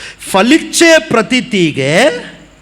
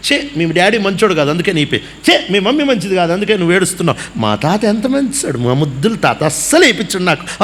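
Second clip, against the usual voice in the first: laughing inner thought. Retold or imitated. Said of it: "అనుకొని ఉన్నా నేను".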